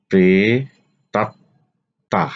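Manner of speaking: প্রেতাত্মা stretched as pre-ta-tta; slow model pronunciation. Shown as a demonstration. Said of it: "আলোচনা করব শব্দের উচ্চারণ". (প্রেতাত্মা ধীরে উচ্চারণ)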